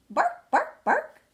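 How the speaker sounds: high, loud yappy barks; sharp high storybook woof; dog barking. Acted. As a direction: bark out the word like an excited dog. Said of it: "find a dog barking at him".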